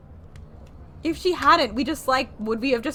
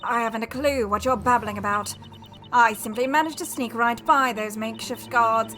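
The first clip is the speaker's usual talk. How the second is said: louder, proud public denunciation; haughty noblewoman; 4 dB louder than usual. Acted. Darklaw denouncing Kira to the townspeople, loud and proud. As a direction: address the townsfolk with scornful pride.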